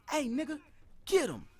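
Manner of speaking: high, eager call to action; crowd egging on. Retold or imitated. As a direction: egg him on. Crowd urging him on.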